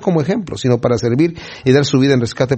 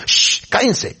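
acted shushing, higher pitch; mandando callar; 6 semitones higher, slower than usual. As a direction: hush the noisy beggars. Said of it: "Y la gente". (mandando callar)

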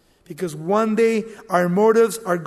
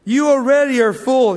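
louder preaching, already stressed; preacher hammering the verse at the congregation; forceful preaching; 4 semitones higher, 7 dB louder than usual. Acted. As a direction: boom the verse out. Preacher reads scripture forcefully.

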